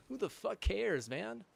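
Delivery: high, loud who the fuck cares; loud fed-up rant; exasperated outburst. Real, not acted. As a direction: throw up your hands and yell it.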